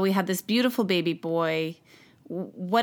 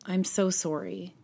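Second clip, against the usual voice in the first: softer, somber bad-news voice fading away; sad doctor; 2 semitones lower, 7 dB quieter than usual. Doctor breaking the news on the phone, softer and sad. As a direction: deliver the diagnosis gently and sorrowfully. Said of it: "the tone of their voice, that was so sad".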